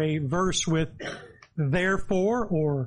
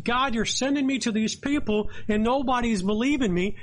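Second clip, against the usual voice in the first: higher-pitched imitated plea; raised pitch, mild retold lament; crying out to God; 5 semitones higher than usual. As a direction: mildly voice a prophet's complaint to God. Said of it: "cry out that nobody believed".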